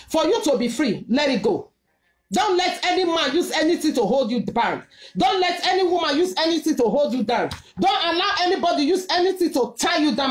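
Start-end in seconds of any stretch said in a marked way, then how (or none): 2.3-10.3 preaching. Real, not acted. Preaching at full force.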